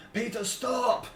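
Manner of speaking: high, frantic, begging cries; mother begging, near tears; desperate pleading. Acted. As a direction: plead for your son's life. Mother begs for her son.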